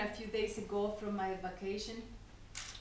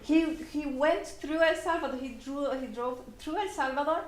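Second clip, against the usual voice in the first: fast, higher, eager retelling of the husband; excited urging; 4 semitones higher, faster than usual. Retold or imitated. Husband at the car window urging his wife, fast and excited. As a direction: rush it out like he can't wait to share.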